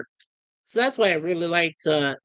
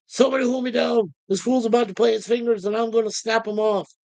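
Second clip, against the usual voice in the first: raised-pitch tough-guy threat; 4 semitones higher than usual. Retold or imitated. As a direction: imitate a tough guy about to erupt. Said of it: "B A says".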